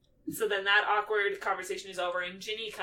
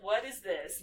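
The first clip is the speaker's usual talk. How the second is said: slow, higher offended gasp; drawn-out disbelief; mock shock; 5 semitones higher, 4 dB quieter, slower than usual. Everyone reacting to the kiss, slow and shocked. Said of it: "everybody's like".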